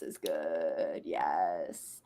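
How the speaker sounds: soft, breathless whisper. Real, not acted. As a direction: whisper it under your breath. Whispered aside.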